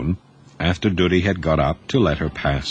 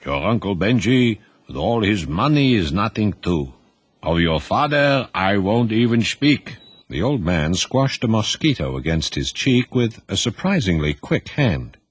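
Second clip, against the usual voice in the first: put-on stern old grandfather.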